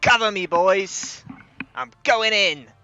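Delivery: very loud, very high, drawn-out shout. Voicing an enemy leader charging forward with his shield: shouting. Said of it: "he's just shouting".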